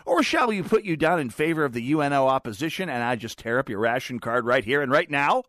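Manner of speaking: mock poll taker.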